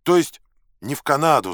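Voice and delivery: high, loud correction; forceful high-pitched shout; yelling. A narrator's reading. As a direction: holler the correction across. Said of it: "заорал я опять".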